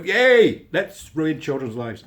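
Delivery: hammed-up gleeful cheering; mock cheer. Vlogger voicing Scotland's glee, mock cheer. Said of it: "Scotland's going, you know".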